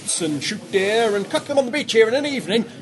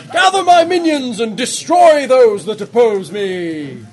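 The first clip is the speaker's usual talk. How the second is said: loud slow proclamation; shouting badger statue; 7 dB louder, slower than usual. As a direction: bellow the command. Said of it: "it says".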